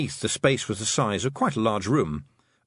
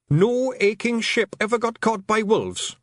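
high, louder Scottish pixie rushing words; gabbling Feegle; 12 semitones higher, 4 dB louder, slower than usual. Acted. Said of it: "Rob Anybody gabbled".

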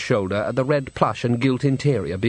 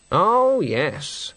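calm; 5 semitones higher than usual. Acted. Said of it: "said Granny calmly".

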